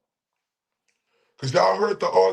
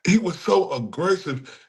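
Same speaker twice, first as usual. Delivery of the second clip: mock whiny quote; 3 semitones higher than usual. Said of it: "She said".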